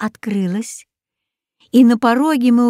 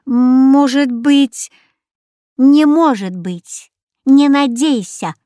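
teasing; 4 semitones higher, 4 dB louder, slower than usual. Acted. Parrot teases Katya.

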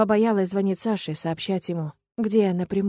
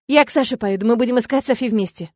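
louder, higher snappy retort; snapping; 4 semitones higher, 5 dB louder than usual. Acted. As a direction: bite back at him. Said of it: "огрызаюсь я".

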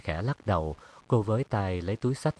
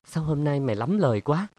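higher, louder snap at a friend; angry retort; 6 semitones higher, 4 dB louder than usual. Acted. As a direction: strain the neck and fire it back. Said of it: "gân cổ lên với Trâm".

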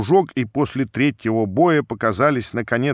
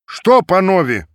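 higher, loud call to the crowd; proclaimed loudly; 6 semitones higher, 5 dB louder than usual. A narrator's reading. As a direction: announce it to everyone. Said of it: "провозгласили во весь народ".

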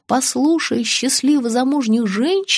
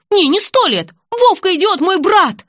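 indignant protest; 9 semitones higher, 5 dB louder than usual. A narrator's reading. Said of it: "возмутилась блондиночка".

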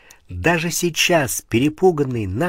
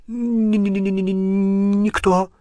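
frightened stammer, higher pitched; stutter; 8 semitones higher, slower than usual. Acted. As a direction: stammer it out in terror. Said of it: "начал слегка заикаться".

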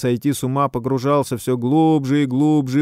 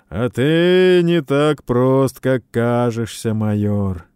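loud teasing; 3 semitones higher, 6 dB louder, slower than usual. Acted. Хэл teases the major.

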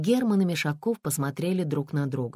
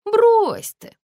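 brushing it off; 8 dB louder than usual. A narrator's reading. Colonel brushes off objection.

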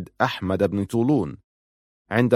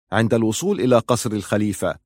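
ordinary delivery

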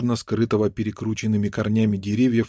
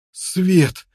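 a high, joyful first cry; glad cry; 7 semitones higher than usual. A narrator's reading. Prisoner sees daylight, excited cry. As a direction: call out at the sight of daylight. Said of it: "закричал воспрянувший духом неудачник".

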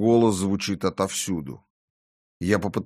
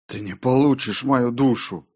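defiant line, higher and not hushed; tense, raised-pitch defiance; muttered defiance; 5 semitones higher, 4 dB louder than usual. A narrator's reading. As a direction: refuse the tempter through a tense mutter. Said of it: "пробормотал я".

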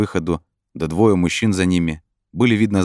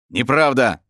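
higher, emphatic protest; exclaimed denial; 7 semitones higher, 4 dB louder, slower than usual. A narrator's reading. Brin protests to the inner voice, exclaiming. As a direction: cry out in denial. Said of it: "воскликнул Брин".

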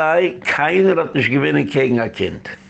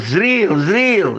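calling out; 5 semitones higher than usual. Retold or imitated. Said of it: "rief der Rebbe".

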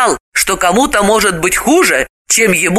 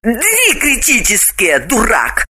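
a touch higher woman's voice; lightly irritated woman; mild exasperation; 4 semitones higher than usual. Acted. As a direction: mildly scold a fool. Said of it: "рассердилась Галина".

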